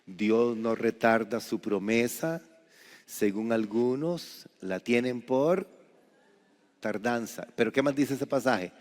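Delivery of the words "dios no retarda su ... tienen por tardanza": scripture reading. Shown as a demonstration. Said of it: "dice la palabra del Señor".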